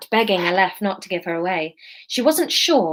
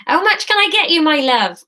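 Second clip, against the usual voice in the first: put-on Somerset accent; 8 semitones higher, 5 dB louder than usual. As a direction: sing it out in a broad Somerset accent. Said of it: "this is gonna be Somerset".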